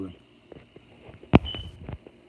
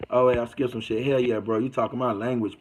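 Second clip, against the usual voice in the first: ordinary talk, nothing marked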